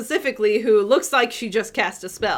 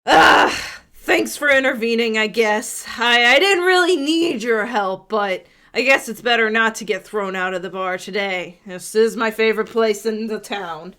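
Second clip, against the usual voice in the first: half-orc woman voice; 4 dB louder than usual. Acted. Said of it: "and says".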